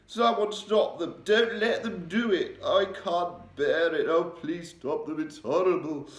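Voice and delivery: high, loud, anguished pleading in a bad dream; sleep talker's nightmare cries. A narrator's reading. The Queen crying out in her sleep, high anguished pleading. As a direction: cry out from a nightmare, begging them to stop. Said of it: "a slightly blurred sleep talker's voice".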